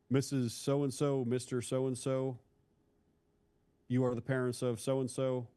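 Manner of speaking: imitating a blunt, slow death notification; cold, direct officer. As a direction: address the parents slowly and formally, detached. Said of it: "cold and, uh, direct way of saying".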